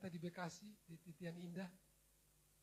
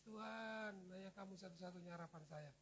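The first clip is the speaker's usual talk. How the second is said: tearful prayer; 9 dB quieter than usual. Retold or imitated. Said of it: "saya mulai menangis".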